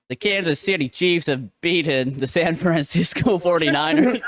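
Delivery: a playful put-on American sports-caster accent, breaking into a laugh; mock American accent. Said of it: "my best, uh, American accent".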